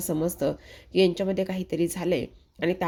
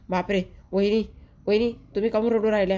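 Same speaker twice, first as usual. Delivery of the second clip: alarmed outburst; 3 semitones higher, faster than usual. Acted. Dhanya bursts in alarmed.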